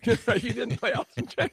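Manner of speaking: laughing through it, voice jumping up high; can't believe it, laugh it out; laughing disbelief. Real, not acted. Telling the host he laughed at Dave's news, laughing high.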